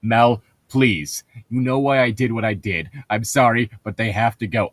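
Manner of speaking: through clenched teeth; gritted teeth. Acted. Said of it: "I say through gritted teeth".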